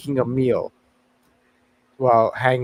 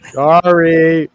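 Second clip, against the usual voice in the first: loud, higher mock "sorry"; retold loud apology; 4 semitones higher, 6 dB louder than usual. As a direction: imitate his booming apology. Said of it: "And you were like".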